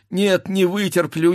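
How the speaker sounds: first break of panic on "не вытерплю"; wife who cannot bear the sound of the fight; anguished outcry. Acted. Wife frantic during sabre fight.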